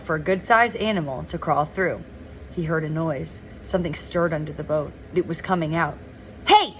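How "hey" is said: short, high, raised call; a contained storyteller's shout to startle; shouted hey. A narrator's reading. Boy shouts to scare the animal back inside, shouted. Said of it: "Stanley shouting, hoping to scare it back".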